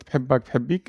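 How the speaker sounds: بحبك said first as hebbak, then as habik; both forms. Shown as a demonstration. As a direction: contrast the two endings of بحبك. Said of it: "really good example with".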